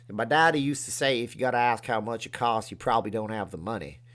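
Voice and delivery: put-on mild Texas twang on an old saying; folksy Texas accent, lightly done. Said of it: "if that's a Texas accent I just did".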